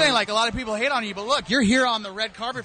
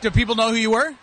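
slightly louder cartoon clown voice; Krusty the Clown; 5 dB louder, faster than usual. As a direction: ask it like a TV clown. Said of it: "It's my Krusty the Clown impression".

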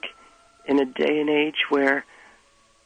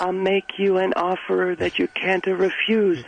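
put-on Italian mobster accent; 3 semitones higher, slower than usual. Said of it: "doing a stereotypical Italian accent".

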